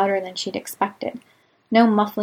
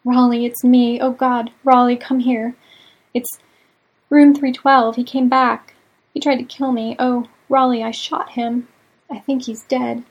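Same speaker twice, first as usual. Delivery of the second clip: higher, louder frantic pleading; panicked call; 3 semitones higher, 7 dB louder than usual. A narrator's reading. May calling Raleigh after the shooting, panicked. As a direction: gasp it out in panic.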